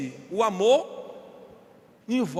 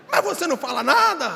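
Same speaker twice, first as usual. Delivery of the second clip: mock angry wife; 4 semitones higher, 5 dB louder than usual. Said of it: "ela fica brava comigo".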